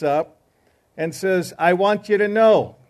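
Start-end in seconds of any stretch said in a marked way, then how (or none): 1.6-2.8 loud, declaiming soapbox orator; proud proclamation. Retold or imitated. Irishman's soapbox speech, proclaiming.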